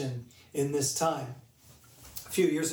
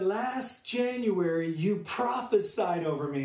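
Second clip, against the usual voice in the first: higher, drawn-out emphatic retelling; retold excitement; 4 semitones higher than usual. Preacher voicing the man's message about prophecy, excited and emphatic. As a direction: imitate someone eagerly announcing big news.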